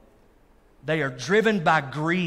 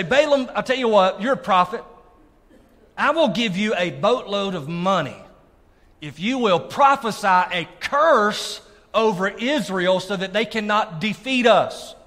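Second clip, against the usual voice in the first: raised, louder voice of a king striking a deal; scheming king's offer; 4 semitones higher, 5 dB louder than usual. Acted. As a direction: sell the bribe like a pushy king. Preacher voices King Balak bribing.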